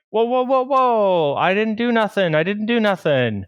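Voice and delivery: put-on high, pleading kid voice denying everything; panicky kid. Boy pleading innocence to the farmer, high and panicky. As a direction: squeak out a nervous denial.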